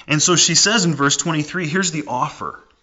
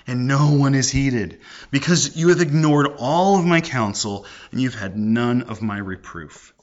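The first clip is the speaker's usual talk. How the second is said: slow, strained exasperation; a mildly exasperated Wisdom. Retold or imitated. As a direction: sound worn out from calling. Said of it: "look at her exasperation".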